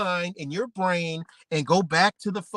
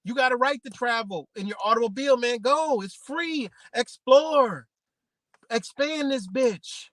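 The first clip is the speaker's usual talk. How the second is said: lightly voiced officials, raised pitch; mock government voice; 6 semitones higher than usual. Officials urging drivers to travel, lightly voiced higher pitch. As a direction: sell the open road like a pitchman. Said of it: "They were like".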